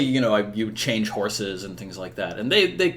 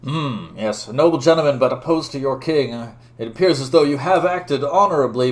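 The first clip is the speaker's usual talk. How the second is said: raised, formal dueling challenge; loud, higher-pitched noble knight, easing toward the end; challenging knight; 4 semitones higher, 6 dB louder than usual. Acted. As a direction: declaim a demand of honor. Voices challenger Sir Elaine.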